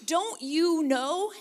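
Jesus rebuking. Retold or imitated. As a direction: chide the teachers who should know better. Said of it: "He's like".

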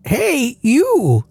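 put-on high, slow old woman voice; old lady voice. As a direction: voice the grandma, high and wavering. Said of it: "I could have done a better delivery on it".

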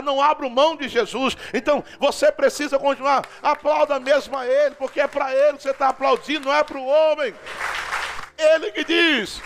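impassioned, driving sermon delivery; fervent preaching. Real, not acted. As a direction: exhort the congregation with mounting conviction. Preaches with rising fervour.

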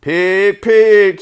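high, coaxing animal call; kind voice. A narrator's reading. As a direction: coax kindly but call it out loud. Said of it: "said Zuckerman in his kind voice".

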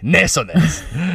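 very slow, drawn-out seductive "Nasonex"; Antonio Banderas impression. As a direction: purr the brand name like a smooth movie star. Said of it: "and he was like".

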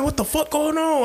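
squeaky high what-the-fuck; high incredulous exclamation; high confused mock. Seeing friends fight on the ground, high squeak.

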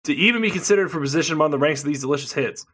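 reading the ad copy quickly; mock salesy promo read. Reading the menu text aloud.

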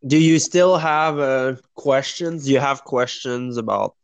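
talking through a mouthful of chips; words round a bite of Doritos; mouth full. Real, not acted. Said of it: "I'm eating Doritos".

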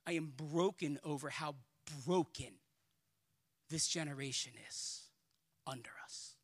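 low, subdued sorrow, fading away; grieved, dropping to almost nothing; broken-hearted. Real, not acted. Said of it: "it breaks me".

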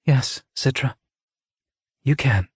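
unhurried, gentle reassurance. A narrator's reading. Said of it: "Scythe Curie's voice came gently to her".

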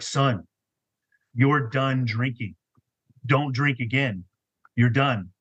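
a hint of a divine command, spaced out deliberately; booming voice of God. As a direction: lightly imitate a calm, authoritative voice with pauses between commands. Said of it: "it's, like, this booming voice".

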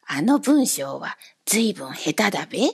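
ashamed man asking about his letter, sadly. A narrator's reading. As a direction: ask it downcast and hushed. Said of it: "下を向いて悲しそうに言いました".

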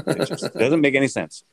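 incredulous laugh breaking into "doesn't make any sense"; laughing disbelief. Real, not acted. Host laughing at his team's loss in Jacksonville, laughing disbelief. Repeats point, second time laughing.

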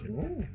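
mock cow "ooh"; imitated cow moo. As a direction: give a small startled cow moo. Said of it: "the cow goes".

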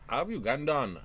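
mock Ugandan accent, slow and lightly put on; a hint of a Ugandan voice, slowed down; a joking attempt at a Ugandan accent. Shown as a demonstration. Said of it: "I could do a good Ugandan voice".

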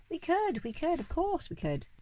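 high, excited chorus of agreement; eager shout. A narrator's reading. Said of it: "we all shouted".

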